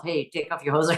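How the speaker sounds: mock Canadian accent. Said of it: "famous Canadian accent".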